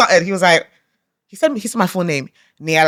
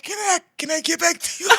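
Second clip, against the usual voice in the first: higher, softer, laughing through the words; laughing question; 8 semitones higher, 9 dB quieter than usual. Retold or imitated. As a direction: giggle out a nervous dodge. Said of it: "And then I was like".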